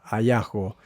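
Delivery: Hallazgo said as jasgo, J sound up front. Shown as a demonstration. Teacher respelling the word with a J for the class. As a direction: Hallazgo with a J-like breath at the start. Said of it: "Vamos a representarlo así, con una J".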